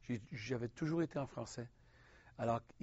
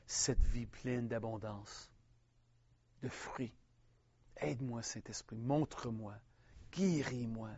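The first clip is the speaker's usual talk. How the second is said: prayer. Acted. Leads a prayer for viewers.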